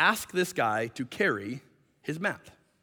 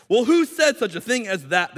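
raised, slightly pressing question; demanding; 4 semitones higher, 4 dB louder than usual. Acted. Jewish leaders question the healed man, demanding. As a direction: challenge him for an answer. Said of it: "they demanded".

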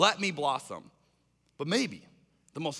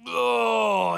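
acted waking groan; 5 semitones higher, 6 dB louder than usual. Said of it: "got some sleepy sand in".

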